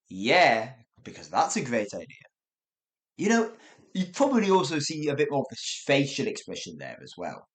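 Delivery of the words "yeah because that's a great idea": sarcastic. Shown as a demonstration. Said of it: "you don't think that's a good idea".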